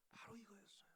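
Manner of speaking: breathy hushed whisper. Real, not acted. Preacher whispering the key point to the congregation. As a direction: whisper it like a secret.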